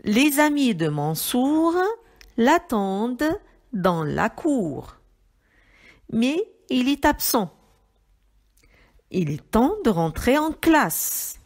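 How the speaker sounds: loud, measured classroom reading; reading aloud. Shown as a demonstration. Teacher reading lesson sentences to young pupils, measured reading aloud. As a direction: read the sentences out clearly and loudly. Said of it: "Je lis les phrases".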